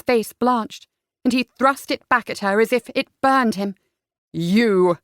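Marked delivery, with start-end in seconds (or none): 4.3-5.0 low, croaking accusation; strangled father's voice; croaked. A narrator's reading. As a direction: croak it out in shock. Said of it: "he croaked".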